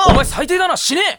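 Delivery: high, loud outraged yell; shouting. Acted. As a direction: yell it in disgust. Yelling at friend.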